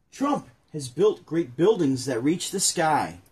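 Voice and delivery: slow careful read-aloud; read aloud slowly. Acted. Rereading the children's book line to his partner, slow and careful. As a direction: take it slow and deliberate, like reading to kids. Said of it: "I already messed it up. Let me start over".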